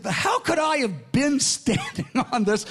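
high, amazed, laughing through the question; laughing in disbelief. Retold or imitated. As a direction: laugh at how unlikely it is. Amazed retelling of his own question.

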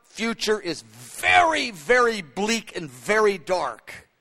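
slow, heavy, deliberate lament; grave slow quote. Retold or imitated. Knesset spokesman telling of a dark future, slow and grave. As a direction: weigh each word of a bleak future. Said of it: "He said".

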